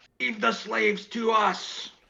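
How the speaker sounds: shrill, drawn-out, very high, slow yell. Running after orcs on a mountain and calling to them: yelling in character. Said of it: "I start running and I start yelling".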